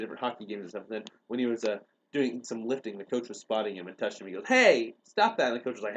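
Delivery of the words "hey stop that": loud, higher, drawn-out objection; hammed-up raised-voice refusal; mock protest. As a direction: imitate a kid calling out in objection. Kid objects to coach's touch.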